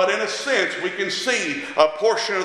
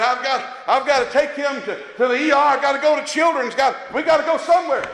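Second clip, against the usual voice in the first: panicked quote; 5 semitones higher than usual. Retold or imitated. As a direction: blurt it like a scared parent. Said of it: "And I'm panicking and going on".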